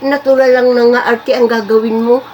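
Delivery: high-pitched imitation of a critical neighbour; imitated busybody, high objection; mock objecting neighbour. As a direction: mimic a neighbour scolding, pitched well up. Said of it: "sasabihin pa nung kapitbahay".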